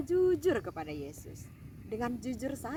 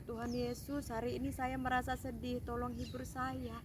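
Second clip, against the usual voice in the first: put-on soft, small voice of a child telling Jesus she is sad; a gentle, quieter plea for comfort; sad child's prayer; 6 dB quieter than usual. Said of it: "menyampaikan apa yang ada di hatinya". (doa anak yang lirih dan sedih)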